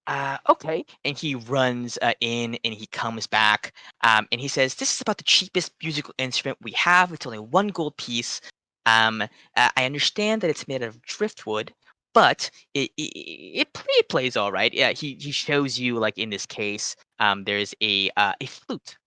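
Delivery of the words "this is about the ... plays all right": quick, higher little salesman voice, a touch apologetic; halfling shopkeeper. Acted. Halfling shopkeeper pitching a cheap flute to the customer, quick and higher. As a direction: rattle it off like a keen halfling selling cheap.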